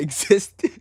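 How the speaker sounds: breaking into laughter. Real, not acted. Reader failing to finish Kakashi's line, cracking up. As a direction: start steady, then crack up laughing.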